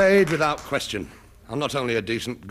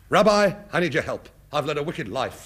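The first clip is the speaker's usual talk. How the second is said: mock confession; 2 semitones higher than usual. Feigned confession to a rabbi.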